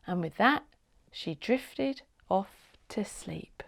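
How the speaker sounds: slow, soft whisper; lulling a listener to sleep; sleepy whisper. A narrator's reading. Bedtime story ending line.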